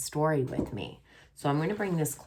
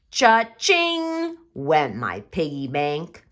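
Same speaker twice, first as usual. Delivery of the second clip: sound effect phrase; 5 dB louder, slower than usual. Shown as a demonstration. Sound word read slowly.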